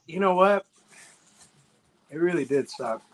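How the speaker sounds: talking through numb lips. Real, not acted. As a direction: lips too numb to shape words. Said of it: "I can't feel my lips".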